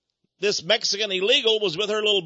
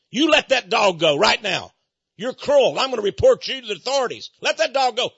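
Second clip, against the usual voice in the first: louder, raised scolding; retold angry yell; 4 semitones higher, 5 dB louder than usual. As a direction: tell him off hard. Retold quarrel with dog owner.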